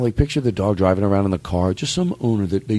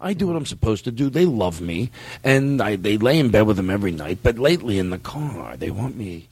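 dog voice. Pretend. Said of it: "should I put on the dog voice".

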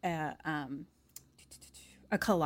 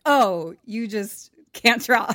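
laughing mock pity; 8 dB louder, slower than usual. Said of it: "they're like".

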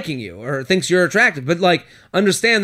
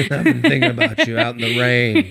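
cowboy voice; 5 semitones lower than usual. Retold or imitated. Continuing cowboy bit.

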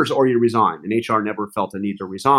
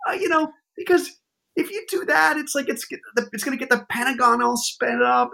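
much higher, squeaky, near-whining plea; frantic Kelly imitation; 13 semitones higher than usual. Chief of staff begging the advisor not to follow orders, high frantic whine. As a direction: beg him in a panicky high voice. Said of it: "and says".

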